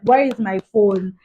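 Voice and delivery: WHERE IS MY PHONE hit loud and slow; insistent demand. Retold or imitated. Woman retelling her only worry after the accident, insistent. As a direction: demand it, leaning hard on each word of "Where is my phone".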